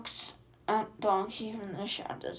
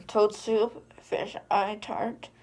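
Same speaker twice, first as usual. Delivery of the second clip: proud loud boast; 8 dB louder, slower than usual. Acted. Ogre boasting of his cooking.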